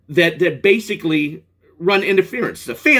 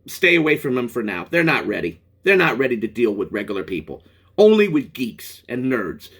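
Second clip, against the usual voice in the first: mock verdict; 7 semitones lower than usual. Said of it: "it's always gonna be saying".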